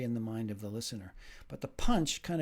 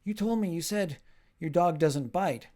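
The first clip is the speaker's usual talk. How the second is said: higher, louder hurt complaint; indignant yelp; 5 semitones higher, 6 dB louder than usual. Acted. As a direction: protest after being bitten. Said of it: "and you say".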